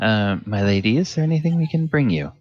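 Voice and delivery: a hint of an eager, courteous servant; lightly voiced waiter, quick and attentive; polite server. Server kneeling to ask the lady, eager and courteous.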